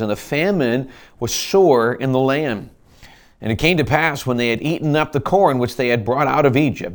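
measured, formal King James reading; scripture reading. Acted. Pastor reading Genesis to the congregation, measured. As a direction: read the verse with weight.

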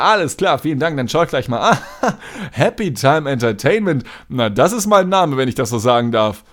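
beaming call-center charm; customer service voice. Retold or imitated. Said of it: "so übertrieben freundlich".

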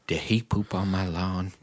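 put-on low, quiet old-lady voice; mocking the neighbor. Replaying the neighbor's line, low soft mimicry. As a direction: imitate her mumbling question. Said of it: "you've given me".

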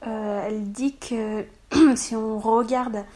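hoarse voice from a cold; sick hoarse throat, clearing it. Real, not acted. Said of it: "ma voix s'enroue, elle fait des trucs bizarres".

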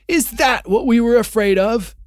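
high, loud, strange jeering creature voice; sneering creature. Acted. A creature of the witch's crowd mocking Aslan, high sneering voice. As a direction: sneer it like a cruel goblin. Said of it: "said another".

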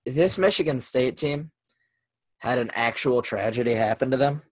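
choppy audio breaking up; cutting out over a bad line; worn tape copy. Real, not acted. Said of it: "I can hear you again".

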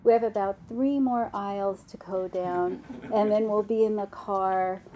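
lightly voiced soothing mother; a touch of patient, tender coaxing; gentle mom. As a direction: gently reassure a whining child. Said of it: "Mom says no very gently".

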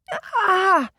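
sharp high cry of pain after a kick; pained wail. Acted. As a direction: yelp as if kicked in the ribs. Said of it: "Beau wailed".

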